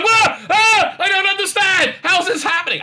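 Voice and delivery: acting out total bafflement; wife's stunned reaction. Retelling the wife meeting the English repairman, high and astonished. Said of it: "And she's like".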